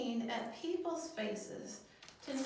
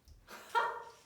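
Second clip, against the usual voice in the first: belly laugh; 5 dB louder than usual. Shown as a demonstration. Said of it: "having a really good belly laugh".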